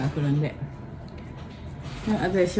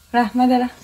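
pet talk; 6 semitones higher than usual. Real, not acted. Talking to the pet.

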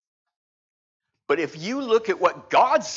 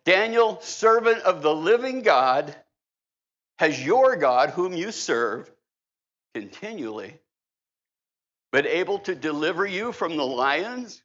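lamenting cry. Acted. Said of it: "he cried out with a lamenting voice".

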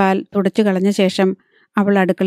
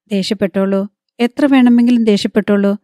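choked up. Acted. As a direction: hold back tears while answering the husband. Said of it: "സുജാതയുടെ സ്വരത്തിൽ ഗദ്ഗദം പുരണ്ടിരുന്നു". (ഗദ്ഗദം കലർന്ന സ്വരം)

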